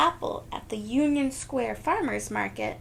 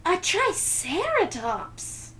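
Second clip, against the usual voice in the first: bellow; 8 semitones higher, slower than usual. Acted. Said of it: "the curator bellows".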